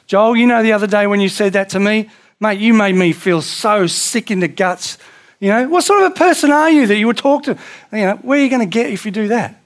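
loud, high, fast accusing rant; the wrong way to confront a brother, a hammed-up angry rant; wrong way, angry confrontation. Shown as a demonstration. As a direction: tear into him with rising outrage. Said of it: "You don't go like this".

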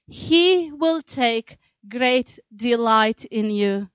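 slow and tender, savouring each word; tender reading. Shown as a demonstration. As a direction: read it slowly like a gift. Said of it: "isn't that beautiful".

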